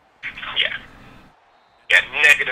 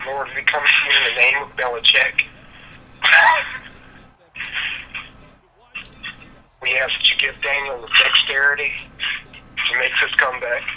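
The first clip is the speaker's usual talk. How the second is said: mock prayer. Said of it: "say the, uh, Madden prayer".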